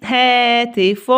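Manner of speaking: هاتف said slowly with each syllable separated. Shown as a demonstration. Teacher splitting the word into syllables for pupils, slow. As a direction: sound out هاتف piece by piece. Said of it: "طيب".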